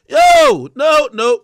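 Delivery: very high loud burst of no; sudden yell. Real, not acted. Outburst rejecting the apology.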